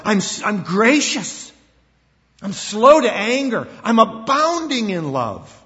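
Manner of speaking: loud, high, slow proclamation; declaring. Pretend. God declaring himself to his people, loud and high. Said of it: "he declares himself".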